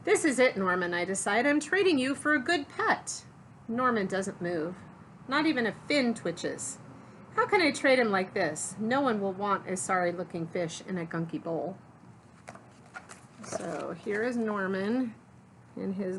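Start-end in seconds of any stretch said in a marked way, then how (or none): 0.0-11.8 lively, expressive picture-book narration; story read-aloud. A narrator's reading. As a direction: read it to children, punching key words.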